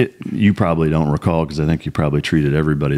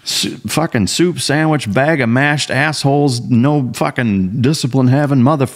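slow, high-pitched mock dressing-down; imitated drill instructor; 8 semitones higher than usual. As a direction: chew out a recruit like a boot camp instructor. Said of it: "dressing me down like you were a fucking boot, boot camp fucking drill instructor".

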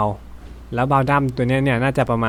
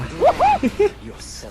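high giggle. Real, not acted. Laughs at his own cute line.

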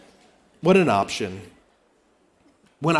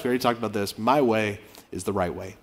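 lower, softer, smug; dismissive aside; 8 semitones lower, 5 dB quieter than usual. Acted. Pastor voicing a smug partner, low and dismissive. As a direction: mutter it as settled fact.

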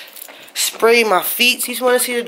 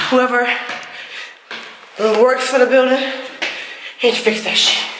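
breathless after the climb; panting, out of breath. Real, not acted. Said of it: "I'm out of breath".

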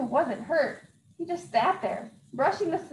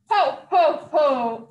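jolly Santa laugh; 7 dB louder, much slower than usual. Acted. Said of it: "said Santa".

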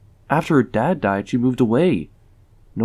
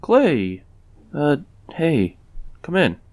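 surprised greeting; 4 semitones higher, slower than usual. Acted. John to an unannounced police chief, surprised. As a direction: caught off guard, higher-pitched hello. Startled greeting to unexpected visitor.

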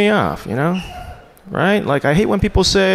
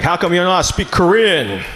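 lightly voiced dad, scolding at normal pace; a hint of a stern father asking. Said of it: "He's like".

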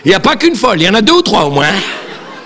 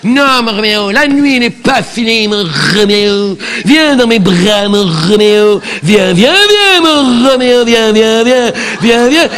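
hammed-up Juliette; slower than usual. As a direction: beckon Roméo lovingly and theatrically. Juliette pleads, beckoning Roméo.

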